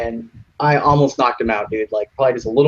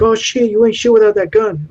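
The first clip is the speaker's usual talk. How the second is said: high, louder sneering gang voice; mocking thug; 10 semitones higher, 5 dB louder than usual. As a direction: scoff at him like a jeering bully. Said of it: "And they're like".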